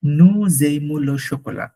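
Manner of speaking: Nous aimons le chocolat said very slowly, word by word; slow dictation. Shown as a demonstration. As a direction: spell it out slowly for the student. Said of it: "তারপর হচ্ছে".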